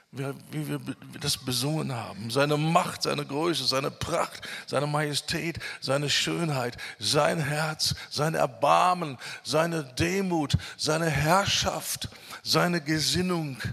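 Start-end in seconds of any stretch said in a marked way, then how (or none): 2.3-13.6 rhythmic preacher's list, slowing toward the end; emphatic preaching. Acted. Preacher extolling Jesus' qualities to the congregation, emphatic preaching. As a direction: preach each item with growing weight, drawing out the last ones.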